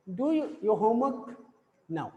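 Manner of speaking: slow command with a falling end; teacher giving a model command, falling at the end. Shown as a demonstration. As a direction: order it slowly, let it fall. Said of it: "falling intonation".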